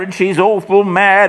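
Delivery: high, frightened, with awful stressed; terrified raving. Acted. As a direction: whimper that she's awful mad. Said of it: "he says".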